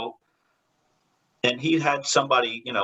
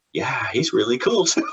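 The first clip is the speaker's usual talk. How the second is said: laughing. Retold or imitated. Fans' reaction, then laughing.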